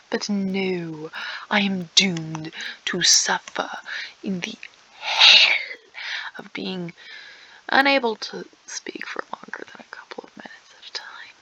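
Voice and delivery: hammed-up tragic whisper. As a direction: whisper it like a doomed heroine. Dramatic whispered complaint.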